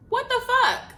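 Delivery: high, loud disbelieving cry; shocked outburst. Retold or imitated. Reacting to the bartender holding her card in his mouth, high shocked cry. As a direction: blurt it out in total disbelief.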